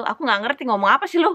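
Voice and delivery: mock-annoyed local snapping at a foreigner. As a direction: rattle it off like an exasperated local. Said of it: "Kayak dia tuh".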